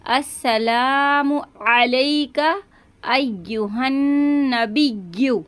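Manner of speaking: measured, drawn-out prayer recital; slow recitation. Shown as a demonstration. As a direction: recite each word slowly for students. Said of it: "तशदीद को जाहिर करेंगे". (धीमी तिलावत)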